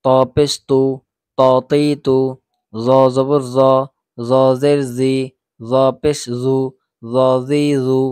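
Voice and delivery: measured spelling-out of letters and vowels; evenly intoned teacher's demonstration, brief pauses between items; Qaida recitation drill. Shown as a demonstration. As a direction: recite each short vowel in an even, level drill. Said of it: "এরকম ভাবে কিন্তু তাড়াতাড়ি উচ্চারণ করে".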